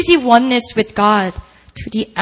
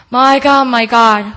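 loud cry; 2 semitones higher, 7 dB louder than usual. A narrator's reading. Preacher voicing Jesus on the cross, a loud anguished cry. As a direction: cry out to God with your last breath. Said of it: "he cried out in a loud voice".

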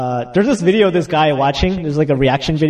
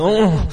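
weakened groan. Retold or imitated. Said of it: "my legs just started losing strength".

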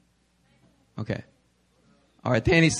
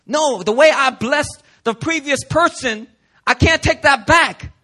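Isaac refusing; 5 semitones higher than usual. Retold or imitated. Isaac refuses Esau's plea, firm and raised. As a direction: hold firm, you can't take it back. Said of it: "And Isaac's like".

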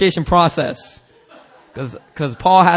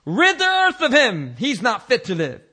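mild mock shout, pitched up; crowd shouting; 7 semitones higher than usual. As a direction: read it as an outraged mob's cry. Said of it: "they raised their voices and shouted".

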